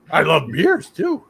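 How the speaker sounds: slow, loud goofy cartoon delivery; hammed-up cartoon goof. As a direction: ham it up, laughing through it. Hammed-up joke with drawn laugh.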